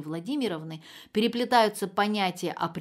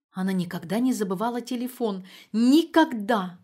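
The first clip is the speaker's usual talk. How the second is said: Никогда slowed right down and much louder; stress on никогда; 2 semitones higher, 6 dB louder than usual. A narrator's reading. Mother refusing to believe the phone was forgotten, stressing Никогда. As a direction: hammer the final Никогда.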